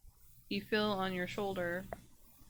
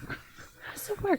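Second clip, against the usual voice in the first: very high, slow monkey voice; high-pitched, slowly wondering monkey; puzzled monkey; 3 dB louder, slower than usual. Acted. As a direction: draw the question out as a tiny creature. Monkey hitting the player's face.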